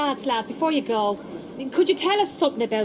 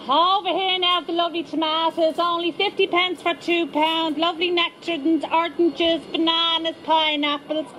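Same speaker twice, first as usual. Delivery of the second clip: street trader hawking fruit, raised pitch; market trader call; 4 semitones higher than usual. Acted. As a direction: call out the fruit like a stall holder. Market trader calling out wares.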